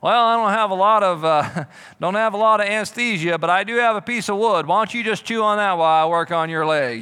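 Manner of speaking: a sloppy doctor shrugging it off; lightly voiced backyard surgeon; mock backyard doctor. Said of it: "backyard hospital".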